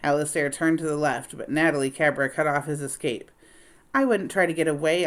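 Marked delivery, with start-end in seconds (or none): 3.9-5.1 sweetly. Acted. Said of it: "she said sweetly".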